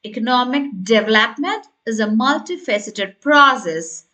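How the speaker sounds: engaging demo, "development" and "process" picked out; stress on "development". Shown as a demonstration. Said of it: "stressing the word development and you're raising your voice slightly".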